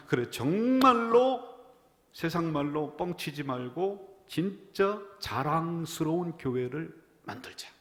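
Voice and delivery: slow, loud, high vow; determined resolve. Retold or imitated. Young pastor vowing to build a proud church, fervent. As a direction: declare it like a promise to yourself. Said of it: "제가 그때 결심한 게".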